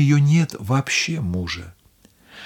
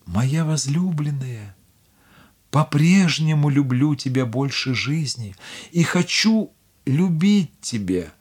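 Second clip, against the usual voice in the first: tender husband. Acted. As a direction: comfort her gently. Husband comforts wife.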